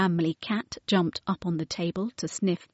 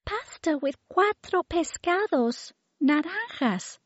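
put-on little girl voice; 10 semitones higher than usual. A narrator's reading. Mary speaks.

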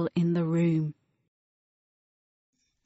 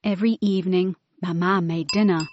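usual speaking voice

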